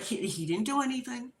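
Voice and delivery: crying. Retold or imitated. Crying wife defends husband to suspicious guests, mock tearful. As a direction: act out protesting through sobs. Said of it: "I'm crying".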